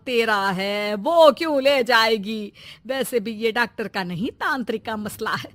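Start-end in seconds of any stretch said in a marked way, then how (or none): 2.9-5.5 softer, darkly hinting; ominous hush. Acted. Mother-in-law darkly hints at sorcery, hushed and ominous. Ominous hint of black magic.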